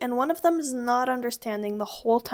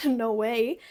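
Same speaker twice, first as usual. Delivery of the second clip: amused disbelief. Shown as a demonstration. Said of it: "this is hilarious and you're like".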